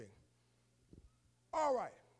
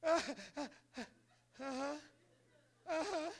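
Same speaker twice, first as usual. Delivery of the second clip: put-on little boy's reply; 6 semitones higher, much slower than usual. Son answers through tears.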